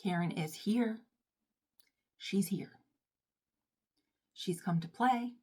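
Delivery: hushed, slow, part-whispered menace; softly spoken, like a villain has arrived; ominous announcement. Acted. Announcing her alter ego's arrival.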